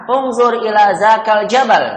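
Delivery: loud, high-pitched drilled order; firm imperative for the class to repeat; commanding. Shown as a demonstration. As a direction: order them to look. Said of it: "menyuruh atau memerintah".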